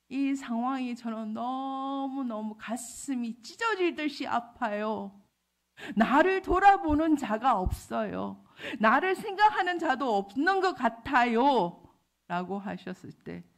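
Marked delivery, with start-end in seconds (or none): 0.1-11.8 slow, drawn-out lament swelling louder; building cry of complaint in prayer; anguished plea. Retold or imitated. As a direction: plead to God from a hurting heart. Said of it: "속으로, "하나님".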